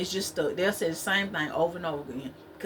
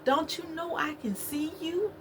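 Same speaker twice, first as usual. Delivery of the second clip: higher teasing call, rising on you; mock Cat Williams; 8 semitones higher than usual. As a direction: playfully echo the comedian's bit. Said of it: "I'm just like".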